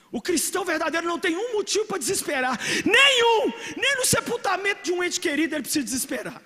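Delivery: a preacher's impassioned shout; fiery pulpit cry; full-force preaching. Real, not acted. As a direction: preach it loud and high, crying out.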